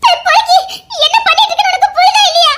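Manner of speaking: fast, half-laughing shout; woman rapidly scolding the man who has locked her in; exasperated scolding. Acted.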